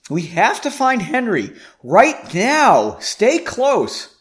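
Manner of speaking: loud, high, pressing command; urgent orders. A narrator's reading. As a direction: order them along with real urgency. Urgent orders while fleeing.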